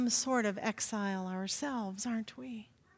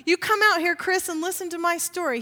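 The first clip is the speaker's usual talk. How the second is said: higher, louder Bud impression; hammed-up Bud shouting down from the balcony; imitating Bud; 5 semitones higher, 6 dB louder than usual. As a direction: play the insistent old man calling out to Chris. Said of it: "I'm your new imposter here".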